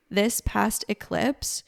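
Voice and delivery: ordinary delivery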